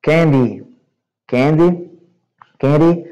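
candy repeated, \"KAN-dee\". Shown as a demonstration. Teacher drills candy with the class, repeated pronunciation. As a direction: model candy three times. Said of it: "como é que o americano fala".

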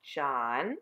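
drawn-out, questioning name; teacher's cautious, lingering address; slowly. A narrator's reading. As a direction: say the name slowly, with a careful lift at the end. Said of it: "said Miss Plimsoll slowly".

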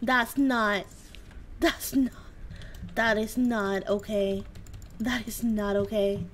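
wounded, low grumble; low sulky complaint. Real, not acted. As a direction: mutter your hurt feelings low. Low sulky complaint after scare.

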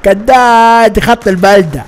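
drawn-out mock hawker's cry; teasing call. Joker ribbing friend about being a town-route driver, playful mocking. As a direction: stretch it out, teasing through the laughs. Keeps chanting the teasing nickname.

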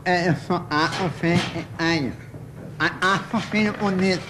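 a hint of a stammering voice; stutterer. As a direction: repeat the first sounds. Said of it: "O gago falou assim".

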